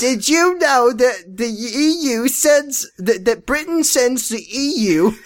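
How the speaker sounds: put-on British accent. Continues British bit.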